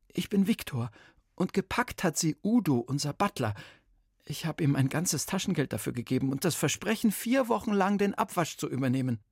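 put-on nervous boy blurting out his trouble; boy's voice.

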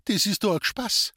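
high pleading disbelief; disbelieving cry. Acted. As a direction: cry out that it must be a joke. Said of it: "rief sie".

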